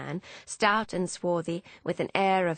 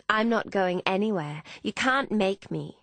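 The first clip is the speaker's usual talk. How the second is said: put-on mildly defiant young woman, a little raised; 3 semitones higher than usual. Emmeline refusing to leave with Hannah, defiant. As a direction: dig in and refuse.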